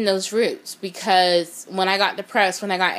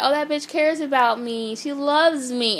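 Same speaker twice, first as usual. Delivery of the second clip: higher, gushing mock voice; mock naive gushing; 5 semitones higher than usual. Mocking her own naive friend group, in a higher gushing voice. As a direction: play the fool who trusts a fake friend.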